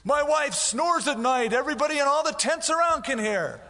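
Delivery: high, loud nagging voice; hammed-up petty grievance; whiny complainer. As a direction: gripe like a fed-up husband.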